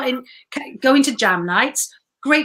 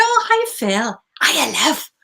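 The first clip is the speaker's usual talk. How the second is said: much higher, a cheerful delighted hello; bright surprised greeting; 4 semitones higher than usual. Retold or imitated. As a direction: greet an old friend you're thrilled to see. Greeting Phil in the cafe.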